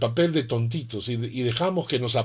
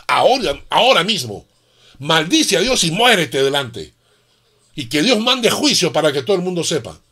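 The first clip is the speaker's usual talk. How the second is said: firm, slightly raised dare; bold challenge. Retold or imitated. Preacher daring the atheist before the crowd, firm and bold. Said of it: "lo confronté y le dije".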